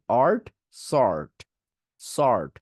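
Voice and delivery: আর্ট then সর্ট, drawn out, no w; slow sword drill. Shown as a demonstration. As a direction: build "ort" into "sort", slowly. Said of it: "এটাকে এইভাবে বলবেন".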